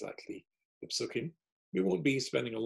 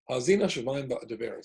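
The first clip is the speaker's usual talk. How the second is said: louder, ringing recitation of Hazina Shemaim Ba'adavera; declaimed to the heavens; 6 dB louder than usual. Shown as a demonstration. Moshe addressing the heavens, declaimed. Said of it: "he addresses the heavens".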